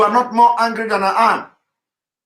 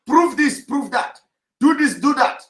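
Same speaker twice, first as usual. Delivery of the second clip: sarcastic parroting of "prove this, do that", much higher; mocking demands; 6 semitones higher than usual. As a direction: mimic their nagging demands, pitched up high. Mocking followers' constant demands.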